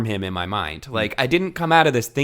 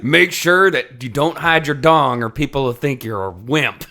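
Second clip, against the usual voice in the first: slowed, amused mock advice; joking mock quote of the book's advice; mock quote through laughter; 2 semitones higher, 3 dB louder than usual. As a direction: read it out like absurd book advice, laughing.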